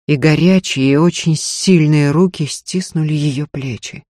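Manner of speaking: usual speaking voice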